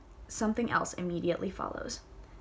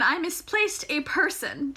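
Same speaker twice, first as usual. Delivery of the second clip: higher, louder, slow mock line; mock quote; 7 semitones higher, 4 dB louder, slower than usual. Shown as a demonstration. Reader mocking the phrase, slow and high. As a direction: lean into the absurd phrase. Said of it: "But then".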